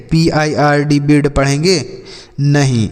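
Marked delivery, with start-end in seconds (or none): 1.0-1.3 बिर्ड with an "i" vowel; mispronounced bird. Shown as a demonstration. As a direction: say बिर्ड wrongly, with i before the r. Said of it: "इसे बिर्ड नहीं पढ़ेंगे".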